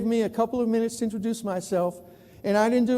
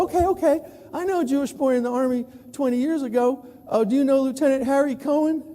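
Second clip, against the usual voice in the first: high, eager Texan reaching for a connection; 4 semitones higher than usual. Retold or imitated. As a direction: pitch it up like a hopeful Texan. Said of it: "they go".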